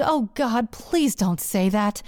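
slow, dragged-out groaning plea; groaned plea. Retold or imitated. Woman begging her lover not to apologize, groaning. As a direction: groan it out slowly, imploring. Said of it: "I groaned".

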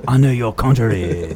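slow, mock Asian accent; stereotyped Asian accent. Recalling last week's bit, hammed-up stereotyped Asian accent. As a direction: drag it out in a caricatured Asian accent. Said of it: "a real stereotypical Asian accent".

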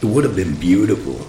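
hard-boiled narrator voice; world-weary private eye voiceover; noir detective. A narrator's reading. Hard-boiled first-person narration.

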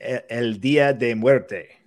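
slow, deliberately bad Spanish accent; American accent Spanish. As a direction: stretch it out in a clumsy gringo accent. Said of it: "In my worst Spanish accent possible".

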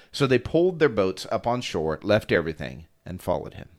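calm, even Bible reading; scripture reading. Acted. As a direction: read the passage steadily to the listeners. The speaker will read.

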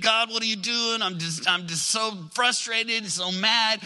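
acted frustrated complaint to God; mildly worked-up protest, building toward the end; angry, frustrated. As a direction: plead in mounting frustration. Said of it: "sometimes we get angry, frustrated".

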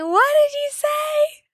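high, slow, puzzled ask; confused question. Retold or imitated. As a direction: strain to hear over noise. Confused friend straining to hear.

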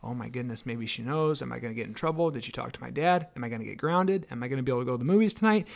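panicky inner worry. Retold or imitated. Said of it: "my mind starts running like".

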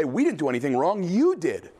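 "you" hit hard and falling; defiant accusation landing on "you"; accusing, stress on YOU. Acted. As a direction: point the finger with "you did". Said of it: "the people say".

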